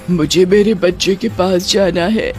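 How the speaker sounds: lightly voiced witch longing for their child; a hint of a yearning ghost mother; pleading witch mother. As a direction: plead to get back to your child.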